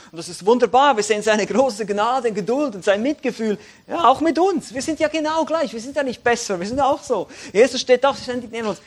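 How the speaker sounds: laut und hoch gepredigt; eifrige Predigt. Acted. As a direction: predige mit Feuer auf die Gemeinde zu. Preacher's fervent application. (Prediger ruft voller Eifer zur Gemeinde)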